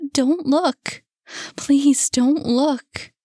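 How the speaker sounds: high, loud, slowing plea; pleading cry. Acted. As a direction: shield him from the sight. Mother shields the boy.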